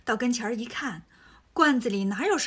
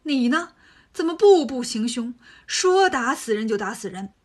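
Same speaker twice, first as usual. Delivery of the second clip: louder, angry scolding; stern rebuke; 5 dB louder than usual. Acted. Tang Seng angrily rebukes Wukong for killing. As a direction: come down hard on him.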